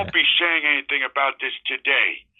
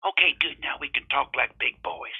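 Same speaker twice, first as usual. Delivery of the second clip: put-on folksy drawling old-timer; old prospector; 3 semitones lower than usual. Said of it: "Senator Manchin".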